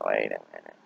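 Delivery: "wait a minute" dropped low and soft, trailing away; fading wait a minute. Retold or imitated. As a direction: let "wait a minute" sink and die out.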